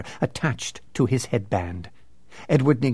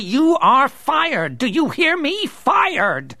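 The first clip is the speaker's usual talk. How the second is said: rising, louder angry tirade; furious roar; 7 semitones higher, 3 dB louder than usual. Acted. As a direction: build to a furious yell. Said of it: "restrain his fury, Stickley roared".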